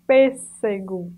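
Pêssego said slowly, leaning on the strong S; slow model word. Shown as a demonstration. Teacher to class, slowly modelling the strong S in Pêssego. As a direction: draw out Pêssego to show its double S. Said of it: "tem um som de S, um S forte".

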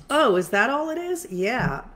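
high, bright sudden realization; surprised. Retold or imitated. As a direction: act out a relieved discovery. Client's relieved realization retold.

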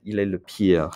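"pire" ending on a French R. Shown as a demonstration. Teacher having students practice their R, "pire" with a French R. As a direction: sound the final R of "pire" the French way. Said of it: "Practice your R".

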